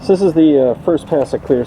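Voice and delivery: muffled behind a respirator mask; through a respirator. Real, not acted. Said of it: "Still got my respirator on".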